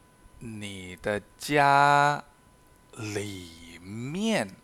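slow, careful reading of each example sentence; slow model reading. Shown as a demonstration. Teacher reading examples to Spanish learners, slow and careful. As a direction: read it out slowly for learners to copy.

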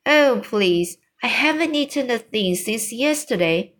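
a touch of hungry eagerness; eager cry. Acted. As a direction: plead for breakfast, lifting the pitch. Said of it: "Sophie cried".

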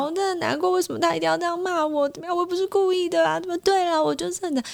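lightly voiced upset girlfriend, pitched high; imitating a crying girl. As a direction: play her hurt and tearful, half-mocking. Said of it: "他就一路哭".

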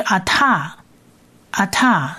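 ata，ata said slowly and apart; slow word demo. Shown as a demonstration. Teacher models the pronoun for students. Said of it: "第二个字就是代名词的你".

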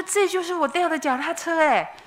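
high, bright-eyed exclamation of discovery; excited recognition. Retold or imitated. Woman spotting her stolen bike, excited high exclamation. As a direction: blurt it out as you spot the bike.

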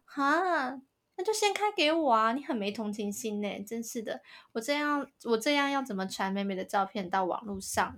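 hammed-up spoiled demand, dropping off after; mock entitled girl. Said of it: "我刚刚为什么要学她讲话".

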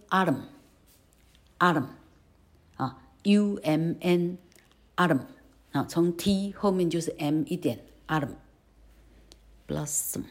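autumn said slowly ending on a held m; slow syllabic m. Shown as a demonstration. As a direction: drag autumn and close on a hummed m.

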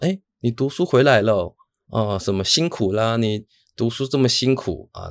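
lightly voiced caring mom, drawn out; gentle mom voice. Retelling how mom greeted her son home, gentle and slow. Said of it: "用这种比较温柔的语气".

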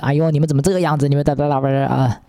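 fast, whiny mock complaint; grumbling driver. Imitating the driver's fast nagging at the group. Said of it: "那个司机又开始唧唧歪歪".

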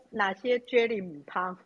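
Taiwanese Hokkien slang, slow; Taiwanese accent. Retold or imitated. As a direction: drop into Hokkien for 母汤. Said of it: "人家母汤的事情".

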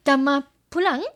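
bug language. Acted. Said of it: "为什么你这么适合念这个".

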